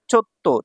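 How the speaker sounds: চোত্ত with a held double t; brief stop before the t in চোত্ত; doubled consonant. Shown as a demonstration. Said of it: "তো দুইবার উচ্চারণ হলে কি হচ্ছে".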